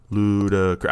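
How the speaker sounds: A rapper's name said syllable by syllable, each one marked; syllables clapped out. Shown as a demonstration. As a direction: spell out the name like a schoolkid clapping beats. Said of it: "I always have to clap my hands when I do this".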